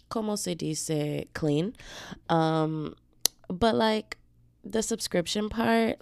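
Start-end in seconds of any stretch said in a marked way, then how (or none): 3.5-6.0 hyped up. Acted. Hyping the unfiltered segment.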